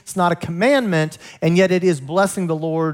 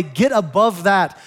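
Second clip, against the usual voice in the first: God's rousing exhortation; 2 semitones higher than usual. Acted. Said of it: "God is saying in this holiday".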